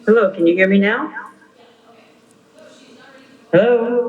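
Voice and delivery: echoing phone line; canyon echo. Real, not acted. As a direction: voice with a call echo. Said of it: "I'm sorry for the echo".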